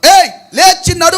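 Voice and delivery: firm, forceful call; Paul's command. Acted. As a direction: order the lame man up. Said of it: "ఇప్పుడు పౌలు చెప్పినప్పుడు".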